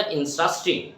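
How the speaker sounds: "ইন্টারেস্টিং" said as "in-stras-ting"; reduced native pronunciation. Shown as a demonstration. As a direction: squeeze the middle of "ইন্টারেস্টিং" into "stras". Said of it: "না বলে কি বলছি আমরা?". ("ইন্টারেস্টিং"-কে "ইনস্ট্রাস্টিং")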